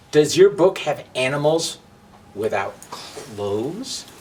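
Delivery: very slow, drawn-out questioning; suspicious Match. Acted. Match grilling Book about the bag, slow and suspicious. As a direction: lean in and interrogate.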